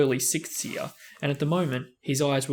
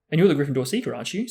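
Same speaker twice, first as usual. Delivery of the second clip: awed; 5 dB louder, much faster than usual. Acted. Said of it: "said Colin in awe".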